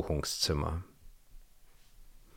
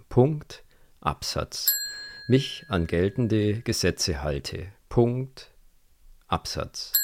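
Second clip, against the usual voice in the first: dictating with punctuation. Acted. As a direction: dictate it word for word for the record. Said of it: "dieses Wort für Wort im Protokoll festzuhalten".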